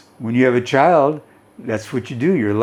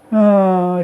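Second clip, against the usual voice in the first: a short pitiful whimpered "oh", higher and louder; mock whimper; 9 semitones higher, 5 dB louder than usual. Shown as a demonstration. Teacher demonstrates a pitiful whimper, mock whimpering. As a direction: show the class how a whimper sounds. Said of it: "she's whimpering".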